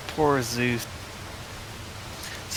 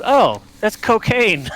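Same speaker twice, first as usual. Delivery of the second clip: slow, higher, drawn-out reveal; raised, lingering retold admission; imitated Randy; 5 semitones higher, 3 dB louder, slower than usual. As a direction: draw out the answer as a mock confession. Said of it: "He goes".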